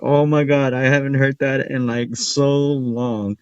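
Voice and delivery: mock-thrilled exclamation; amazed delight. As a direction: gush like you just heard an old joke. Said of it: "I was like".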